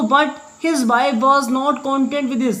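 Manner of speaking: drags each word out, very slow; very slow reading aloud. Shown as a demonstration. Teacher reading the line to students, very slowly. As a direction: dictate it word by word.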